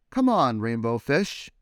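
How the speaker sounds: friendly fish calling out. Acted. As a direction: call him over to play. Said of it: "they would call".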